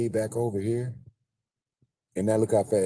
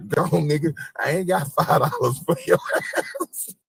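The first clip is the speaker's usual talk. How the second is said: imitating black women; 9 semitones higher, 9 dB louder than usual. Black woman waving off the beggar, loud higher. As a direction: shoo him away with a laugh. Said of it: "black women be like".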